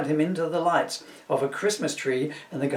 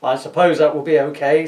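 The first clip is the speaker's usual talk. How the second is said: pitying; 9 dB louder than usual. A narrator's reading. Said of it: "says Max in pity".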